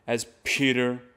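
crisp hit on the first syllable of Peter; attack the syllable. Shown as a demonstration. Teacher demonstrates attacking the syllable of Peter. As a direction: bite into Peter. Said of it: "attack the syllable a bit more".

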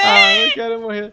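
mock crying. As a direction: whine it like a fake cry. Downed, begging for revive.

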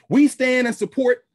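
loud, high, slow public declaration; press-conference statement. Acted. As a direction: proclaim it slowly for the reporters. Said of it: "Press conference is".

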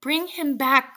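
loud, high, insistent cry. A narrator's reading. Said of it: "cried the old woman".

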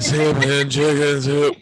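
slow, eerie imitation; slow creepy echo. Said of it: "in there was really good".

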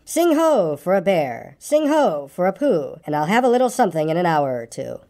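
slow, lilting story-song reading; verse recital. Acted. Reader reciting Pooh's little song, lilting verse recital. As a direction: recite a children's rhyme, drawing out the refrain.

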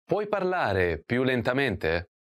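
slow, careful model of the phrase. Shown as a demonstration. Teacher models the question for learners, slowly. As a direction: spell each word out slowly for the learner. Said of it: "Can you speak more slowly".

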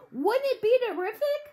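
high, eager outburst; carried away with the idea; excited shout. A narrator's reading. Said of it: "he shouted".

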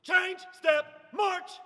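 slow, separated words, march rising; drawn out parade commands. Shown as a demonstration. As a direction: call each word out clearly. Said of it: "rushing each word".

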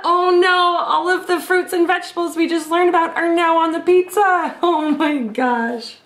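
real laughter through the words; laughing. Real, not acted. Reader laughs at the silly ending, real laughter. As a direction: laugh while reading it out.

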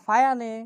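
ফায়ানে in three syllables, "fa-ya-ne"; mistaken reading. Shown as a demonstration. Teacher listing possible misreadings, ফায়ানে stretched to three syllables. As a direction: misread fine as ফায়ানে, sounding every vowel. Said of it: "উচ্চারণটা আমরা করতে পারি".

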